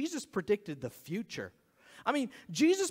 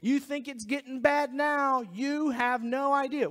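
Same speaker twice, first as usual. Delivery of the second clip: raised, insistent mock politician; stump-speech warning, pitched up and forceful; campaigning politician; 4 semitones higher, 3 dB louder than usual. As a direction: pressure the crowd like a fearmongering candidate. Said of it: "look at liberals and go".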